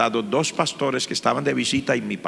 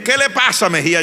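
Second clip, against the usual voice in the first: much higher, louder teacher's question; startled teacher; 7 semitones higher, 4 dB louder than usual. Retold or imitated. Teacher asks a crying student what's wrong, sharp and high. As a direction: ask sharply, surprised to see tears. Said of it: "el profesor me dice".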